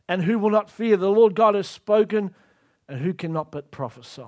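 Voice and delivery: measured pulpit reading of scripture; solemn Bible reading. Acted. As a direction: read the verse with weight, slowing on the lion roaring. Reads Amos scripture aloud.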